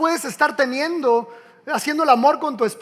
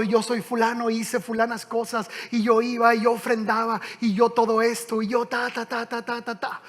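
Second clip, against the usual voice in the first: smug recital; 4 dB quieter than usual. Retold or imitated. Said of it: "Empieza así y todo".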